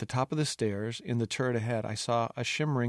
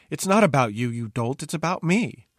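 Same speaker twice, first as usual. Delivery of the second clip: louder, rising put-down; exasperated princess; 4 semitones higher, 5 dB louder than usual. Acted. Princess correcting her fool about the suitors, exasperated. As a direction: scold a fool, voice lifting on the last word.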